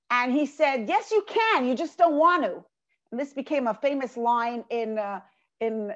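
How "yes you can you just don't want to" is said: higher, exasperated comeback to a refusal; frustrated retort. Retold or imitated. Wagon driver to the scholars, annoyed retort. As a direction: throw it back at them, fed up. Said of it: "frustrated and annoyed".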